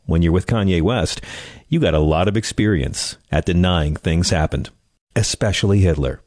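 sultry perfume ad. Acted. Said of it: "I'll just read it, the copy".

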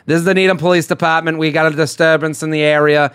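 thick Boston cop voice; police caller with Boston accent. Retold or imitated. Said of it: "this thick Boston accent".

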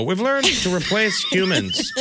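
slow, even robot syllables; even machine gun syllables. Pretend. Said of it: "I love your robot voice".

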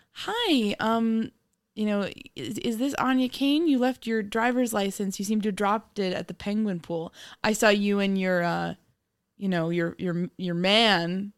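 lightly disguised polite stranger on the phone; fake stranger voice. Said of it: "You could do a fake voice that fools me".

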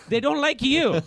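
a high, laughing finish. Real, not acted. Guest laughs while finishing the host's joke, laughing. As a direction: laugh through the punchline.

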